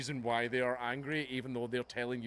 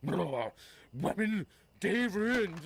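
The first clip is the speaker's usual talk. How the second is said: much higher, louder mock whine; mock whiny fan; 8 semitones higher, 4 dB louder, much slower than usual. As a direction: parody a fan crushed at the sight of women. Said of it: "see women playing and go".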